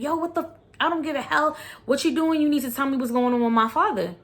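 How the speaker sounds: frantic son. Retold or imitated. Sons freaking out over father's death.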